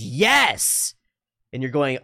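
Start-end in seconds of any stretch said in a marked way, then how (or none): 0.0-0.9 put-on high, emphatic kid's agreement; excited kid. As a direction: burst out like a child finally understood. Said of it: "and the kid goes".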